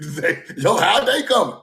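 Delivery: chuckling through the words; amused self-quote; laughing while quoting himself. Real, not acted. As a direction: laugh as you repeat it.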